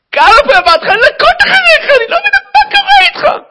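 high screamed scolding; hammed-up parental meltdown; furious mother. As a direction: yell at the child at full volume. Angry mother scolds small child.

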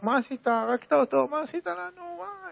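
high, frantic accusing cry; shouting in shock. Retold or imitated. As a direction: throw the accusation up high in disbelief. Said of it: "התחילו לצעוק".

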